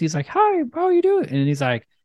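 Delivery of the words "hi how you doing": very high, squeaky, silly puppet-like funny voice. Retelling how a man greets someone, in a funny voice. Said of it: "he does it in a funny voice".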